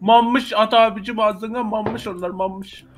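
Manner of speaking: slow mumbling with food in mouth; mouth full. Real, not acted. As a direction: chew and talk slowly. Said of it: "Mammış, mammış".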